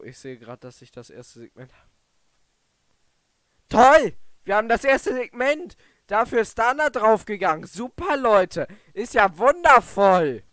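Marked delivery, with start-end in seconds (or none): 3.7-10.4 bitter sarcasm. Real, not acted. Sarcastic about costly win.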